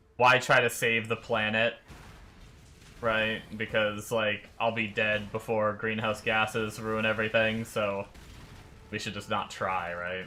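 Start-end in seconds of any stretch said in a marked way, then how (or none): none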